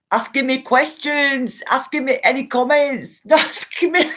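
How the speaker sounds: high, loud words breaking into laughter; helpless laughter takes over the clarification; real laughing. Real, not acted. Host clears up viewer's misunderstanding, laughing.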